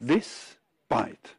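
"This bite" broken apart by a clear pause; split into syllables. Shown as a demonstration. Teacher quizzing students on syllables, "This bite" split apart. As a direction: say "This bite" in separate, deliberate pieces. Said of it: "How many syllables are there".

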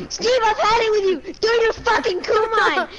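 high, emphatic mock tirade; acted-out angry parent yelling; imitated fed-up mom. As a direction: mimic mom at the end of her patience. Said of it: "then she's like".

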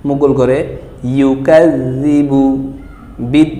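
words split with pauses. Shown as a demonstration. Teacher to class, word by word. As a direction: chop the verse word by word. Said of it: "শব্দ শব্দ দেখুন".

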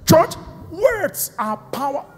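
ordinary talk

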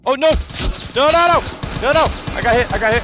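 panicked high yelling; loud startled shouting; yelling across the room. Real, not acted. Getting shot in game.

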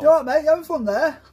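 mock friendly taunt.

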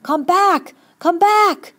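hysterical, full-voiced cry; frantic scream. A narrator's reading. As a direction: voice rising wildly high. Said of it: "his voice rose insanely".

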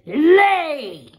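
loud, high single-word order; ogre's command. Acted. Ogre commands the hen to lay, loud and sharp. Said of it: "and the ogre said".

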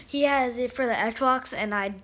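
talking while chewing gum; words around a wad of gum. Real, not acted. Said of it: "I'm sorry, I'm chewing gum".

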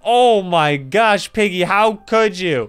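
dismayed. Real, not acted. Dismayed at Piggy.

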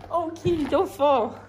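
high, worried coo to the kitten; high pet talk. Real, not acted. Owner cooing at a kitten about to fall, high worried coo.

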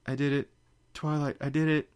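bursting out with pride; excited Fluttershy. A narrator's reading. Fluttershy tells Twilight she did it, excitedly. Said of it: "Fluttershy said".

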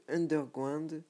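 English word in a thick French accent. Real, not acted. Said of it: "avec mon accent anglais magnifique".

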